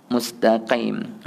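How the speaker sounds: slow "Mustaqim" with a deep qaf; drawn-out "Mustaqim", back q; correct qim. Shown as a demonstration. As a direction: say "Mustaqim" from the base of the throat on the q. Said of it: "kena qim".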